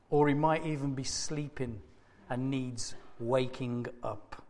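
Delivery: low, soft mock concern; taunting. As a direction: drop the voice for a sly taunt. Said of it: "Elijah began to taunt them".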